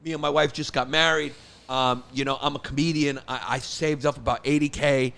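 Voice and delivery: a hint of a timid first-time buyer; role-played loan customer. New husband meeting his mortgage broker at the diner, softly hesitant. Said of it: "I come in, I say".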